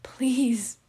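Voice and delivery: a broken, whispered "Please"; choked sob. Acted. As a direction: let the word catch on a sob. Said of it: "shifting into a choked sob".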